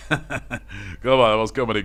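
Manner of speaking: breathy chuckle into words. Real, not acted. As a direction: laugh along with the joke. Laughing at Grant's joke.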